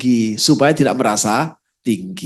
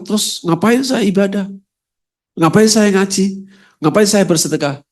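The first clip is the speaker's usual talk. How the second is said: raised, higher pitched protesting questions; imagined congregant complaining, a bit higher; mock complaint; 5 semitones higher than usual. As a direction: whine the objection to the Prophet. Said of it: "pasti komplain".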